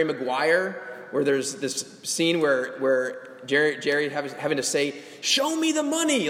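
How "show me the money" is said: imitating a scream. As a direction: belt it like the famous movie scene. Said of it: "like he's screaming out".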